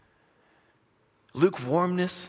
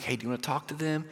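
tentative prompting; 9 dB quieter than usual. Retold or imitated. Pastor nudging two students on the prayer walk, soft prompting. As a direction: ask softly, as if confiding.

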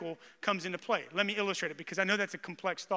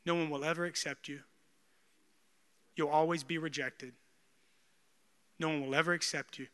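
inner whisper; 4 semitones lower, 5 dB quieter than usual. Retold or imitated. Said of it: "this was the whisper".

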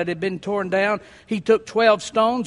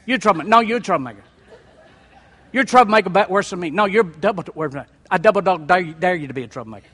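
mock bickering; 3 semitones lower, much faster than usual. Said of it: "fussing back and forth".

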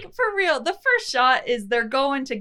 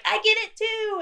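mock T-Rex; 11 semitones higher than usual. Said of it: "T-Rex is like".

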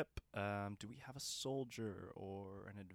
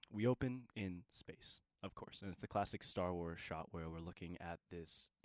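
game master narration; 4 dB louder than usual. Acted. Game master describes the scene.

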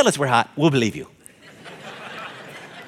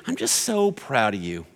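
tender pride; 2 semitones lower, slower than usual. Shown as a demonstration. Dad telling his grown child at last, slow and tender. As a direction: say it like a father finally saying it. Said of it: "to hear from their dad".

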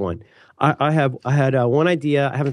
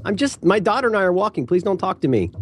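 high-pitched, put-upon brush-off; exasperated high-voiced plea, played up; mock pleading refusal; 7 semitones higher than usual. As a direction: act out fending off a salesperson. Acted refusal of kiosk vendors.

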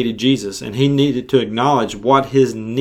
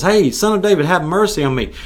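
blind beggar calling out, pitched higher; mock yell; 5 semitones higher than usual. Blind man calling to Jesus from the crowd, a retold mock yell. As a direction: call out to Jesus for mercy. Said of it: "he starts yelling for Jesus".

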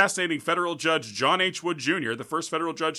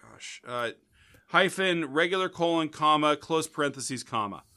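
dictating; 3 semitones higher, slower than usual. Real, not acted. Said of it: "left on, uh, Apple Podcast by".

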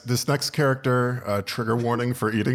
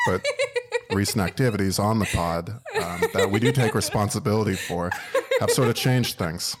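mock solemn apology; 3 semitones lower than usual.

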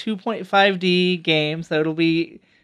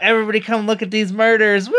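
fast, hyped-up carnival barker; mock hype; 4 semitones higher, faster than usual. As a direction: sell it like a cheesy announcer. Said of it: "to be like".

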